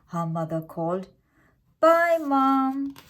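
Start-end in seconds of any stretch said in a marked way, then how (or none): 1.8-2.9 put-on high, bright little girl calling out; a child waving off her mum; cheerful child goodbye. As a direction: call goodbye like a small girl. Child calls goodbye to mother.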